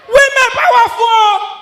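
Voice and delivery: high, loud and slow, laughing; mock awe. Comedian telling the crowd women rule, in slow mock awe. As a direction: stretch it out in mock reverence. Comic punchline refrain.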